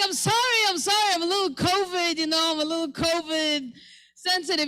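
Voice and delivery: high-pitched mock apology; a high whiny sorry; squeaky apology. Her apologetic high reply.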